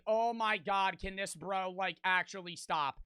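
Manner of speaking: quiet exasperated mutter; annoyed muttering. Retold or imitated. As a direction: mutter it under your breath. Annoyed thought beside mouth breather.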